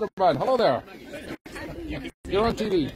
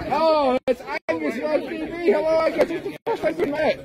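excited greeting; 9 semitones higher than usual. Real, not acted.

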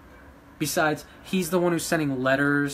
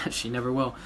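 a dismissive chuckle at a rival; scoffing laugh; 5 semitones lower than usual. Real, not acted. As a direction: laugh her off with scorn. Mocking laugh at her rival.

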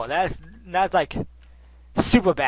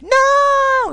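high, loud squealed no; mock yell; 11 dB louder than usual. Player voicing himself in panic, high mock yell. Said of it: "I'm like".

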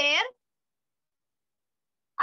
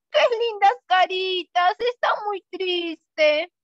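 mock crying; 5 dB louder, slower than usual. Shown as a demonstration. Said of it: "todos una carita triste".

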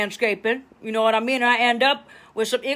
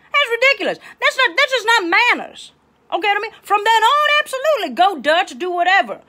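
indignant outrage; 8 semitones higher than usual. Real, not acted. Speaking to viewers about a date who won't pay, indignant and high. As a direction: scoff at the idea, pitch soaring.

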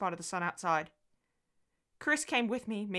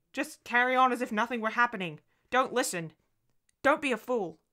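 urgent, raised self-command; desperate self-talk; 6 semitones higher, 5 dB louder than usual. A narrator's reading. Mother telling herself to ignore it, desperate. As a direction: steel yourself, louder and higher. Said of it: "I told myself desperately".

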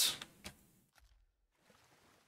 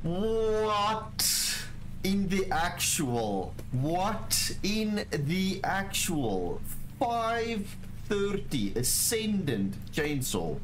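stunned disbelief; 5 semitones higher, much slower than usual. Real, not acted. Stunned by rare loot drop.

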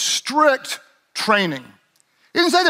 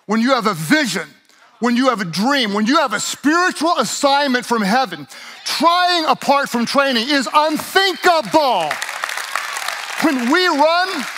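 building sermon climax; 4 semitones higher than usual. Real, not acted. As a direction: build the crescendo toward the vision line.

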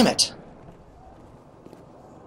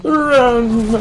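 urgent yell; 11 semitones higher than usual. Real, not acted. Urging himself to flee.

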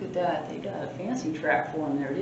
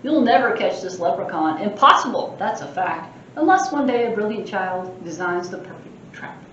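a lightly voiced mischievous leprechaun boasting; cheeky leprechaun; 6 dB louder than usual. Librarian reading the leprechaun's boasts aloud, cheeky. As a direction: tease the reader like a sprite.

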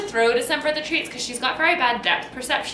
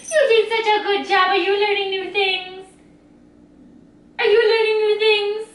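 talking to a dog; 5 semitones higher, slower than usual. Real, not acted. Praising dog after tricks.

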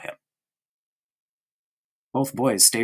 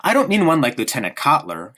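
quickly; 4 semitones higher, 3 dB louder than usual. Acted. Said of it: "said Bruno quickly".

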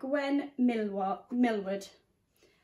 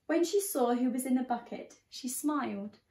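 put-on lively read-aloud to a class of children; story reading. A narrator's reading. Teacher reading The Bog Baby to her class, lively storytelling. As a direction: tell it like a bedtime picture book.

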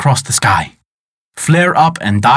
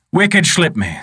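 higher, commanding wizard voice; a mighty wizard scolding his enemy; great wizard's voice; 5 semitones higher than usual. Acted. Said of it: "said the great wizard".

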